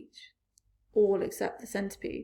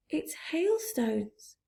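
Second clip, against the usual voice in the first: 1 excited whisper; 5 semitones higher, much slower than usual. A narrator's reading. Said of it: "whispered James excitedly".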